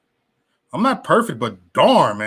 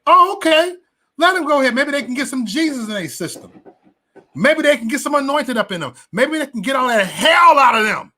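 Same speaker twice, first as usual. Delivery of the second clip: mock the preachy folks, voice pitched way up; mock pious sarcasm; 9 semitones higher than usual. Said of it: "And I looked at it".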